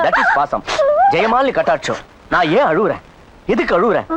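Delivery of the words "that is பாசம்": very high squeaked exclamation; comic squeal. Acted. Brother marvelling at sibling affection, high comic squeal.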